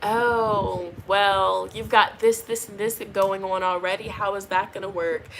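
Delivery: low, subdued, doubtful imagined response; imitating a mildly judgy response; unhappy reaction. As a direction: voice their unenthusiastic reaction, understated. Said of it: "not gonna be, like, happy reaction".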